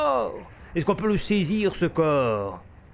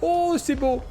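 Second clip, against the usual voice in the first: awed; 9 semitones higher than usual. Real, not acted. Admiring the explosion.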